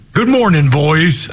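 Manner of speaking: a hint of a cowboy. Shown as a demonstration. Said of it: "even you can do cowboy voice".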